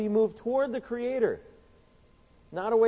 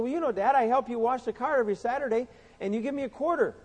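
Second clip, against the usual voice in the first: put-on little boy voice; 5 semitones higher than usual. Preacher voicing Johnny begging his daddy, higher child voice. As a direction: beg like a six-year-old wanting a bike.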